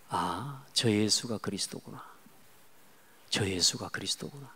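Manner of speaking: soft, low murmur to himself; hushed realization. Retold or imitated. Preacher reliving his own realization, hushed and low.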